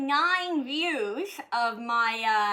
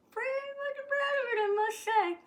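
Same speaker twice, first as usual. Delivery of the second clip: mock proud; faster than usual. Real, not acted. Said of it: "I was pretty fucking proud".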